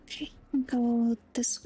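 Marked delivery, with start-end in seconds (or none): 0.0-0.3 whispered direction to the game. Real, not acted. Streamer quietly steering the character, whispering. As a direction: breathe it out under the breath.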